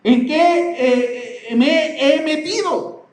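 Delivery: high-pitched mock bewilderment, slowing toward the end; stunned self-questioning, pitched well up; bewildered awakening. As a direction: act out suddenly wondering what you got into. Acting out waking up to truth.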